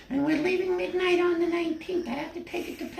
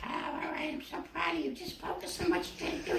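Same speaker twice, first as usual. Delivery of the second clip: 1 mom's soft whisper; 7 dB quieter, faster than usual. Acted. Mom whispers encouragement.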